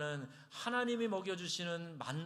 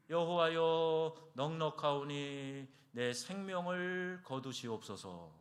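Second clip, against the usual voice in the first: despairing prayer; slower than usual. Retold or imitated. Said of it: "탄식에 가까운, 절규에 가까운".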